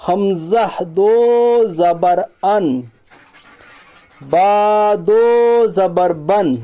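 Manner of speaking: drawn-out, level chant; measured Quran-primer drill, slowly; slow spelling recitation. Shown as a demonstration. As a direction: stretch each long vowel evenly. Drills the letters in recitation style.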